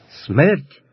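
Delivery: short mild cry with a rising end; mildly voiced shout of a mob; understated crowd cry. A narrator's reading. Zaporozhians round the captive demand death, crying out. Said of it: "кричали довкола запорожці".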